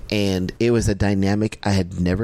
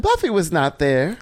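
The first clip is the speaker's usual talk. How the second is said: disbelief; 6 semitones higher than usual. Retold or imitated. Disbelief at celebrity news.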